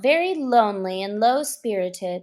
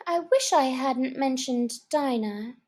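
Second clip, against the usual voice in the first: melancholy; 3 semitones higher than usual. Acted. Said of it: "in a melancholy tone".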